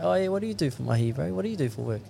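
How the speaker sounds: quick, high and cheeky, fishing for gossip. Retold or imitated. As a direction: play it cheeky and fast like a mate. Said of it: "Fucking just be cheeky to him".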